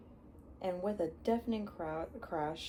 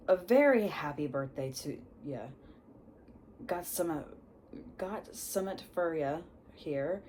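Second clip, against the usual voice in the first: put-on Hagrid accent; 3 dB louder than usual. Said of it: "he has his accent".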